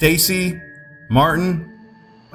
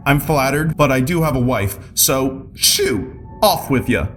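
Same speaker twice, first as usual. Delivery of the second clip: dismissive; 6 semitones higher than usual. Acted. Homeowner shooing wizard away.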